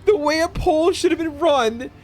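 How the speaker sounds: disbelieving laughing rant; real laugh-cry, voice cracking high; crying with laughter. Real, not acted. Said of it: "Oh, I'm crying".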